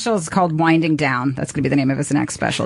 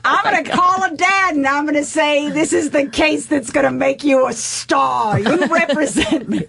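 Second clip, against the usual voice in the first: mocking friend voice; 9 semitones higher than usual. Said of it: "And he goes".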